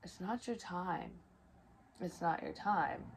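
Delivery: slow, soft spirit voice telling her to stay; unhurried and hushed, like a voice from the other side; a gentle otherworldly voice, drawn out; voice from beyond. Retold or imitated. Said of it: "And I heard".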